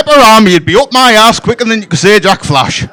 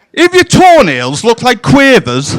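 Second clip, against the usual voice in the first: ranting shout; 2 semitones higher than usual. Acted. Ranting shout about feet.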